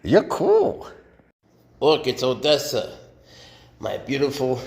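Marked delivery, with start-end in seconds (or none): 0.0-0.9 laughing. Real, not acted. Laughing at the snake.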